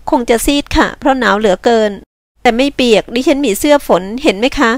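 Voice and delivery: lightly voiced polite woman; a slight lift for the woman's part; polite young woman. Chilled woman answers her rescuer, politely.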